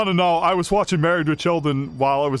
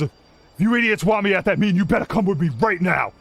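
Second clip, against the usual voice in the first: higher, mildly irritated order; urgent annoyance; 4 semitones higher than usual. Acted. Camp boss ordering two visitors to follow him, urgent annoyance. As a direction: hurry them along, pitched up.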